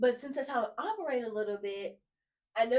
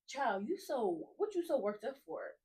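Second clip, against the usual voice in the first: gentle reassuring God; 4 dB quieter than usual. Retold or imitated. Voicing God calming her.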